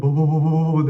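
loud, high calling out Baba to a stranger; shouting for dad. Retold or imitated. A nearsighted kid shouting for her dad at the pool, loud and high. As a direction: yell baba baba like a lost kid. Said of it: "diye bağırıyorum böyle".

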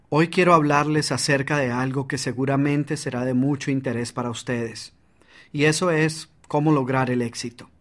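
even, unvaried delivery with no energy; flat monotone. Shown as a demonstration. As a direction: read it flat and lifeless. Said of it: "en lugar de esto dijeras".

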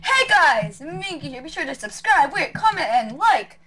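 bright youtuber intro. Pretend. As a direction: hype it up like a channel intro.

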